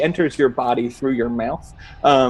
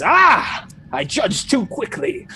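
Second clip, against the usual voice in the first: self-reproach; 6 semitones higher than usual. Acted. Examiner admitting she judged too quickly, self-reproachful. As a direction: kick yourself for a hasty verdict.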